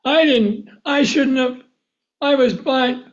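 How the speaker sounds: high, pleading prayer, acted out; crying out. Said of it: "You cry out to the Lord".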